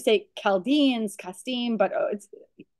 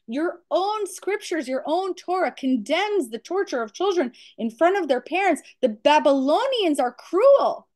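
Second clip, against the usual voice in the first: raised pitch, earnestly pleading with God; collective plea; 4 semitones higher than usual. Acted. Patriarchs beg silent God to speak up, pleading. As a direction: plead the case in a higher voice. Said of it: "everyone is saying".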